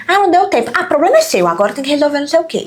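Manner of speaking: casual offhand tone. Retold or imitated. Parents bickering casually, offhand tone. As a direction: throw it away like it's nothing. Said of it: "Sabe aquele jeito que a gente fala".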